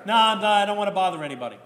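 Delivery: lightly voiced old nan brushing it off; Greek New York grandma. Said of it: "Typical Greek New Yorkers".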